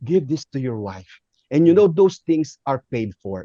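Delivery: calm, kindly retold offer. Changed stewardess handing headsets for the wife, kind. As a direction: imitate the stewardess now being gentle.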